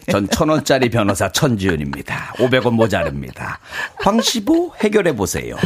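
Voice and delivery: drama lawyer impression. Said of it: "드라마를 되게 재밌게 봤나 봐".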